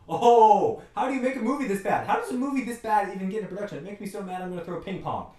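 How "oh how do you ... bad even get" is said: loud, higher, fast laughing disbelief; exasperated laugh. Real, not acted. Laughs at how bad the movie is.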